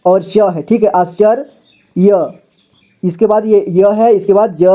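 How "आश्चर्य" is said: slow spelling-out. Shown as a demonstration. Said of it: "इसके बाद आधा श".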